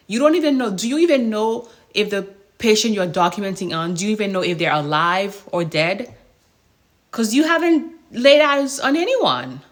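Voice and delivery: heated confrontation. Retold or imitated. Nurse confronting a lazy coworker over the computer, indignant and loud.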